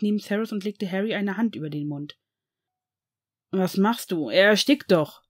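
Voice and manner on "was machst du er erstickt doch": panicked, louder protest. Acted. Severus fears his son is suffocating, panicked protest. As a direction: cry out in fear for him. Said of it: "sagte Severus panisch".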